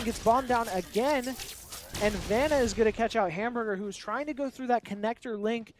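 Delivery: animated esports commentary; live play-by-play. Real, not acted. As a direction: call the kill as it happens.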